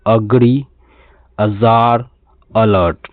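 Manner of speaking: अग्री, अजार, अलर्ट each begun with schwa; short "uh" onset. Shown as a demonstration. Teacher recaps three words, each of अग्री, अजार, अलर्ट starting "uh". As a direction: model अग्री, अजार, अलर्ट one by one, opening on "uh". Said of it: "हम इसको अ बोलते हैं".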